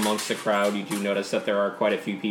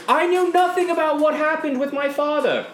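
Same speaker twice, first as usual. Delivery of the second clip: much higher and louder, pushing over the noise; talking over the crowd; 4 dB louder than usual. Acted. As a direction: raise your voice to be heard over the mob. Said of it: "She's like, ... overspeak".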